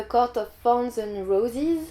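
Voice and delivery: English title read slowly with a French accent. Real, not acted. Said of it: "attention pour mon super accent".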